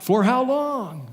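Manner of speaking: slow, high pleading question; pleading cry. Acted. Isaiah crying to God, slow and pleading. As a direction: stretch it out in plea. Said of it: "He cries out".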